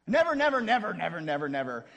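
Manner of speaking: loud and high, fading to normal; Peter insisting. Retold or imitated. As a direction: start loud and insistent, then let it die away. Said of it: "so Peter says".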